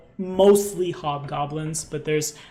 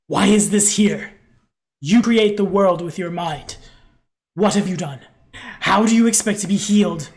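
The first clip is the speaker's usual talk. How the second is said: loud, demanding elder voice; accusing mentor; 2 semitones higher, 9 dB louder than usual. Acted. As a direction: scold them, voice raised. GM voicing Anru accusingly.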